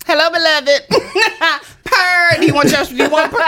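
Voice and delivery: laughing catchphrase. Pretend.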